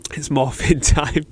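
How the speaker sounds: laughing through the catchphrase; real chuckle breaking into the words; amused laugh. Real, not acted. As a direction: crack up at your own joke. Laughs repeating own joke catchphrase.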